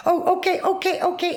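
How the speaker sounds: high mock dismissive okay; mocking the nurse. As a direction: mimic a brushing-off nurse. Mimicking the nurse.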